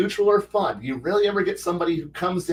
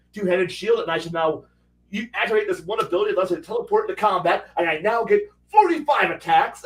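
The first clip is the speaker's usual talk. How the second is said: hammed-up combat monster getting more and more carried away; boastful battle brother; 2 semitones higher than usual. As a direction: brag like a power-gaming warrior reveling in carnage. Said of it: "and then he's like".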